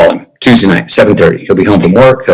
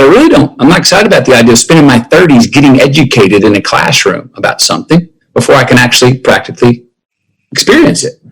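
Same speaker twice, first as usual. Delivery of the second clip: emphatic protest. Retold or imitated. Retells telling dad his doubts.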